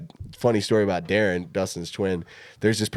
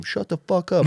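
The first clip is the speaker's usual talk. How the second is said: retold yell; 9 semitones higher than usual. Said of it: "like, yelling this".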